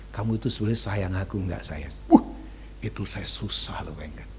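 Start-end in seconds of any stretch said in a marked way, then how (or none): 0.1-1.9 wheedling wife. Retold or imitated. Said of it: "istri saya kalau sudah bilang".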